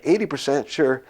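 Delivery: re-enacted baffled disbelief; mock incredulity. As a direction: query it as if it's wacky. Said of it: "looking at him like he's wacky".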